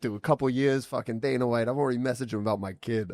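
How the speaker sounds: lightly imitated New York accent. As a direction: brag like a mock New Yorker. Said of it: "like, New York accent".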